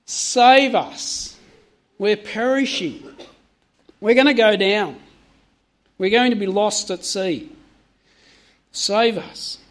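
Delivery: urgent plea, a touch of alarm; lightly dramatised cry for rescue; mildly acted terrified plea. Disciples begging Jesus in the storm, mildly terrified. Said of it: "they were terrified".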